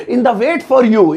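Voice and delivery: slow repeat. Shown as a demonstration. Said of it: "English में कहेंगे".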